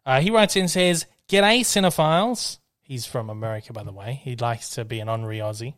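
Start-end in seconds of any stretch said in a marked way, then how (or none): 1.3-2.6 slow, higher-pitched hearty greeting; email read aloud. Acted. Podcast host greets listeners from a fan's email, hearty read-aloud. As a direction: draw out the Aussie greeting.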